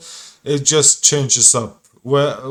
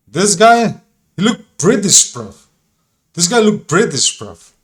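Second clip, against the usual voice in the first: higher and louder, scoffing disbelief; incredulous outburst; 4 semitones higher, 5 dB louder than usual. Real, not acted. Streamer mocking a man in the photo, loud scoffing. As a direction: blurt it out like it's obvious.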